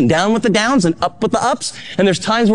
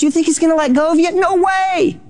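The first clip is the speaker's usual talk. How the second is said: incredulous no way; 9 semitones higher than usual. Acted. Rhetorical climax, God won't let go.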